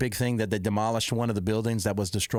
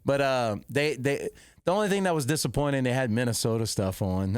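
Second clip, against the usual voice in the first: normal talking voice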